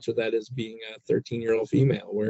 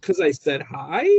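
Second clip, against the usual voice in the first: higher, mock-contrite dad; a dad's hammed-up, higher pitched sorry to his teen; sarcastic apology; 7 semitones higher than usual. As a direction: grovel with heavy sarcasm.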